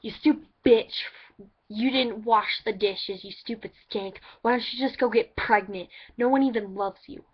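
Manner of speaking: loud mock insults from a rude grandma; hammed-up yelling grandma; imitating grandma. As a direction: bark insults like a nasty grandma. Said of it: "the kind of person that's like".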